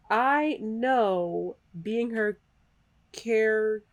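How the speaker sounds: slow, even robot reading. Real, not acted. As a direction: read it out like a robot. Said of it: "I just read that like a robot".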